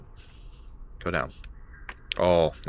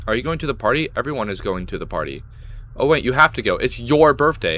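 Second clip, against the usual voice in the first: mocking taunt; 6 dB louder than usual. Taunting the game character mockingly.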